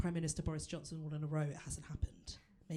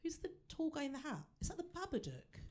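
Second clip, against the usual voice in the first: curious; 8 semitones higher than usual. Retold or imitated. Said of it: "I'm like".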